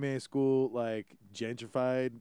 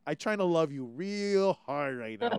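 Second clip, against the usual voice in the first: pidgin retort; 3 semitones higher than usual. Retold or imitated.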